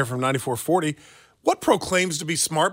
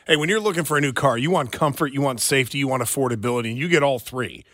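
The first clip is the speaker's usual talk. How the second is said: ad read; 3 semitones lower than usual. Acted. Reads a car dealer ad.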